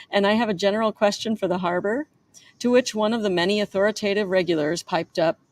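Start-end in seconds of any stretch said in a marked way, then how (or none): 0.1-2.1 put-on New York accent. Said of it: "a nasally, whiny voice with a thick New York accent".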